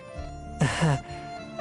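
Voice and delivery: soft, breathy little laugh; awkward laugh. Acted. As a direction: laugh it off lightly and softly. Brushes off hint of personal experience.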